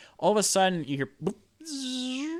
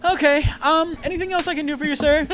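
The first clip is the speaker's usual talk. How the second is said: much higher, laughing through the offer; laughing fawning; 13 semitones higher, 5 dB louder, faster than usual. Acted. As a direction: giggle while fawning over the customer.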